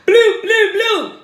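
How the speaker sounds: high, loud calling of a name. Real, not acted. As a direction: call the word out across the room.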